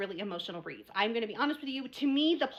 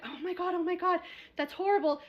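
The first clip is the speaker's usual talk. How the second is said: mock shock; 7 semitones higher than usual. Retold shocked reaction.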